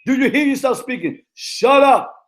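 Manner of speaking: high, loud scolding of a player; retold scolding. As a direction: bark it at him like an angry coach. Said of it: "I said".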